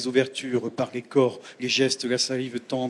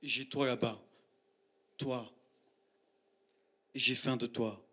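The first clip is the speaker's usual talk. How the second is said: quiet hungry confession, much softer; hushed longing; 2 semitones lower, 5 dB quieter than usual. Acted. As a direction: breathe it close to the one you desire. Intimate address to a lover.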